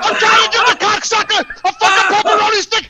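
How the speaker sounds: real furious shouting, voice cracking up; yelling it out, fed up and raging; angry rant. Real, not acted. Ranting to the hosts about the dog attack, furious shouting. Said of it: "That was a pretty good rant".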